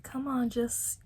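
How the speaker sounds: rally a limp friend; encouraging voice. Retold or imitated. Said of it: "everyone was just trying to be like".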